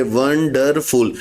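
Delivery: वंडरफुल drawn out very slowly, syllable by syllable; slow syllable split. Shown as a demonstration. Teacher counting the syllables of वंडरफुल for students, slowly. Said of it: "वंडरफुल को pronounce करेंगे तो कैसे, कितने syllabic बनेंगे".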